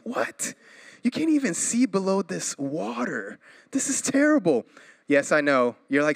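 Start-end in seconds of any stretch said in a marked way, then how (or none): 0.1-4.6 incredulous, rising to high pitch; mock horror. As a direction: act appalled at murky lake water. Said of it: "I'm like".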